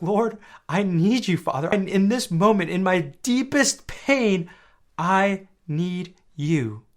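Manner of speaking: raw, all-out plea, high and loud; slow, drawn-out cry from deepest pain; Jesus. Retold or imitated. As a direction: go all out, begging the Father for help. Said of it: "You see how raw he was?".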